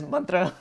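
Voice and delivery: "mantra" said his own Sanskrit-style way, "MUN-tra"; own pronunciation. Shown as a demonstration. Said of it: "I say it as".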